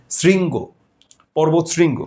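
শৃঙ্গ as "sringo", with hissing s; s before ri. Shown as a demonstration. Teacher gives ri-vowel examples, শৃঙ্গ with dental s. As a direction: clear s opening শৃঙ্গ, not sh. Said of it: "এরকম আর কি".

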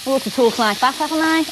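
light Liverpool accent. Shown as a demonstration. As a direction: slip into a touch of Scouse. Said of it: "what accent is it? Liverpool".

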